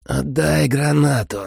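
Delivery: high, slow vampire order; commanding vampire. A narrator's reading. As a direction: command him like a cold vampire lord. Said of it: "приказал Дарне".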